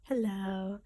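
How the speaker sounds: stuffy nose from a cold; nasal voice. Real, not acted. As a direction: talk through a blocked nose. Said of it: "sorry for, like, my nasally voice".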